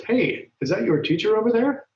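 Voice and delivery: a teacher voicing a student pointing out their teacher; excited question. Shown as a demonstration. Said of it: "Paolo says".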